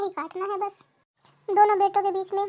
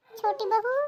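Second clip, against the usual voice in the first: calling out; 3 semitones higher than usual. Acted. Calls the younger daughter-in-law.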